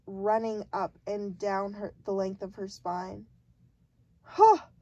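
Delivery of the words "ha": sudden booming shout, high and loud; giant's shout. A narrator's reading. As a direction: bark it out like a giant. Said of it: "shouted the giant".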